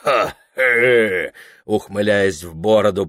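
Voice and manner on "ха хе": gypsy-style whoop. Acted. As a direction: whoop into the beard. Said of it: "по-цыгански ухает великолепный Ферапонт".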